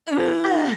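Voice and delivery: put-on child copying mom's exasperated groan; mimicked frustrated groan. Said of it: "Oh, was she frustrated?".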